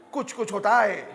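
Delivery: mock Bollywood line through a laugh; laughing mock Hindi. Preacher teasing congregation, laughing mock Hindi. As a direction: toss off the film phrase, chuckling.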